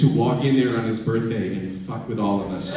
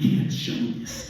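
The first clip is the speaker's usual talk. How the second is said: panicked. Retold or imitated. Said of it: "I'm like".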